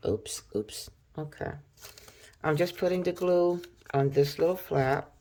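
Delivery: talking around a pen; words mumbled past a pen; pen in teeth. Real, not acted. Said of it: "I'm talking with the pen in my mouth".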